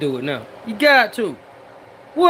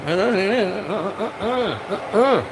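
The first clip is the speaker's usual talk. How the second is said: chuckling through the syllables; breathy laughing stammer; 3 semitones lower, 4 dB quieter, slower than usual. Real, not acted. Scene: hyped cook laughs to viewers, laughing.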